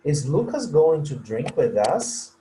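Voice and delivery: Lucas stressed, voice rising to us; rising question tune. Shown as a demonstration. Teacher repeats the question showing the intonation rises. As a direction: end the question on an upward lift. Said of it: "Entonação sobe".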